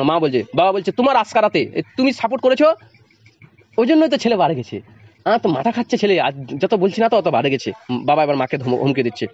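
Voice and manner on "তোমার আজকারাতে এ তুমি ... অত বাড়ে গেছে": angry father. Acted. Father blames mother, acted.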